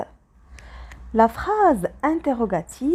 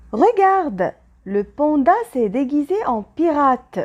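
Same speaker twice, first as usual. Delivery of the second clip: higher and louder, excited look; surprised exclamation; 3 semitones higher, 3 dB louder than usual. Shown as a demonstration. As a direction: call out to the kids in delighted surprise. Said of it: "elle exprime la surprise".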